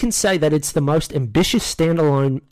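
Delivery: put-on British accent slipping into Australian; badly faked British, drifting Australian; attempted British accent. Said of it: "I'm already doing Australian".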